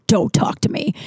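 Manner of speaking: breathy, near-whispered order; muttered warning. Retold or imitated. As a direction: mutter it without looking up. Moody teacher voiced in story.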